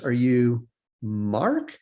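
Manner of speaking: very drawn-out, tentative question; hesitant guess. Retold or imitated. Mother guessing at her son's name, slow and hesitant. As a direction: stretch it out as you grope for a name.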